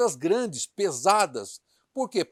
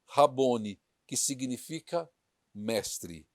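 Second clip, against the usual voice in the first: measured read-aloud of a Bible story; scripture reading. Acted. Preacher reads the resurrection account to the church, scripture reading. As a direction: read it out clearly to a congregation.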